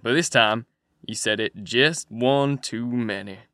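a rough man threatening his partner; pretty loud. A narrator's reading. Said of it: "Another voice said, pretty loud".

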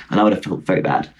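low, deadpan sincerity; sarcastic-sounding. Real, not acted. Adding a regret to the pensioners story, sounding sarcastic. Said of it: "that sounded so sarcastic".

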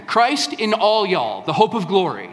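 Southern all y'all. Shown as a demonstration. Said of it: "That's how they say it down here".

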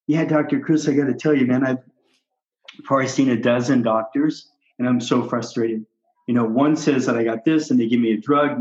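a lightly voiced, fed-up patient complaining to his doctor; frustrated patient. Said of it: "here's what it sounds like".

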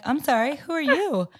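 high, bewildered, half laughing; confused surprise. Retold or imitated. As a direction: ask baffled, laughing a little. Waking in wrong bed.

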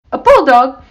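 high, loud outraged exclamation; indignant blurt. A narrator's reading. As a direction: blurt it out, deeply offended. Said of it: "Missus Johnson blurted out".

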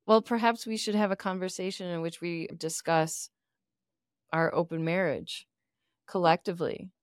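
low, measured and formal; calm therapist voice. Pretend. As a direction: answer like a calm counselor. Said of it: "let's role play this".

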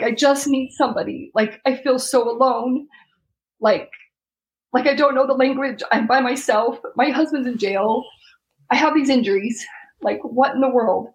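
a lonely plea that keeps breaking; near tears, pleading. Retold or imitated. Wife alone in a foreign hospital, close to tears. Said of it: "I just kept over and over".

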